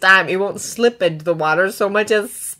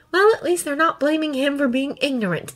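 raised, mildly bitter aside; bitter thought; 7 semitones higher than usual. A narrator's reading. Boy hanging in a dragon's grasp, thinking bitterly. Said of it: "Izuku thinks bitterly".

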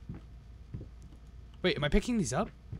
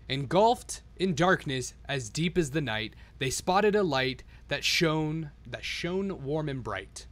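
slow, measured spooky storytelling; slow storybook voice; storybook narration; much slower than usual. A narrator's reading. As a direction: read it like a bedtime tale. Reads the storybook rhymes.

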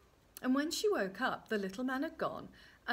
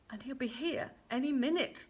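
higher-pitched worry; anxious urgency; 4 semitones higher than usual. Acted. Queen expects the little man, anxious. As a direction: press the urgency of the moment.

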